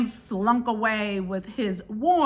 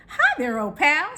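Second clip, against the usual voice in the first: smiling crow; 4 semitones higher than usual. Acted. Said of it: "said the crow with a smile".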